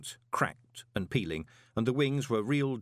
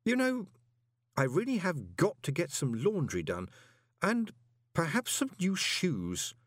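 thoughtful; 7 semitones higher than usual. A narrator's reading. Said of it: "Moist added thoughtfully".

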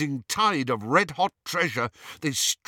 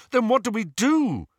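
glaring demand; 8 semitones higher, 4 dB louder than usual. A narrator's reading. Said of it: "glaring at the goblin".

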